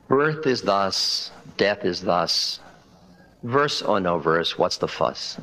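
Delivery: slow, measured recitation of a poem; slow, calm reading of a short poem; recited verse. Acted. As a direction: intone the death verse slowly. Dying Zen master's verse.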